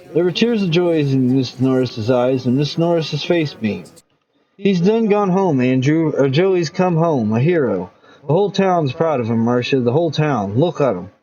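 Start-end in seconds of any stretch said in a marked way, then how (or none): 4.6-11.1 lightly voiced proud mother; a touch of teary pride; mother beaming at her son.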